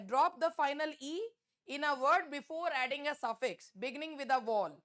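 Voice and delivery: reads the rule out slowly and carefully, word by word; dictating a grammar rule at a crawl; slow classroom read-aloud. Acted.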